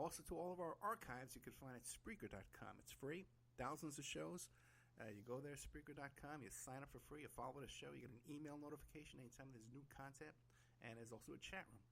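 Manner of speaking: usual speaking voice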